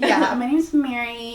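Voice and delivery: MARY said slowly, rhyming with "berry"; American pronunciation. Shown as a demonstration. Telling messagers their name, slow American "Mary". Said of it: "Not Mari".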